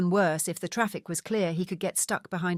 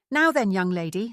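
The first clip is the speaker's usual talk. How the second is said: brisk; 4 dB louder than usual. Acted. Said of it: "said Lady Camilla briskly".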